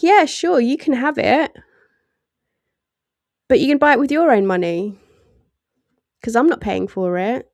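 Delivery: a lightly voiced stingy mum, loud at the start; mum figure. A mum refusing to pay for her child's treat, lightly mocking. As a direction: brush the kid off like a tight-fisted mother. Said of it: "coming off like a mum figure".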